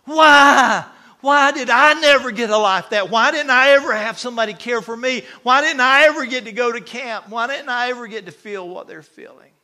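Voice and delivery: high, very loud anguished yelling; raging mad. Retold or imitated. Preacher re-enacts man raging after camp testimonies, furious shouting. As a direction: hurl each question out as a furious cry, easing slightly at the end. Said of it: "he is raging mad, foaming at the mouth mad".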